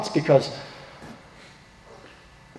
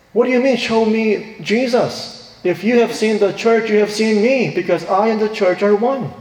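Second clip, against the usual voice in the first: raised, incredulous then firm; voicing Jesus; 6 semitones higher than usual. Pastor voicing Jesus answering skeptics, raised incredulous. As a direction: lift it high like a gentle rebuke.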